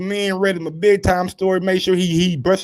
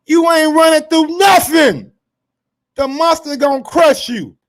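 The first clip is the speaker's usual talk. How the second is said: high, loud taunting shout; 10 semitones higher, 6 dB louder than usual. Real, not acted. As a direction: yell it straight at the challenger. Taunting Casimiro in heated rant.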